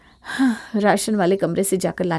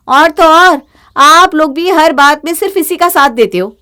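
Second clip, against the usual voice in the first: raised, higher, louder complaint; angry outburst; 5 semitones higher, 8 dB louder than usual. Acted. Daughter-in-law protests to in-laws, angry and loud. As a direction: lash out at the whole family.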